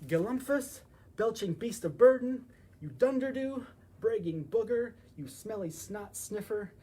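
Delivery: loud, high furious name-calling; angry insults. Acted.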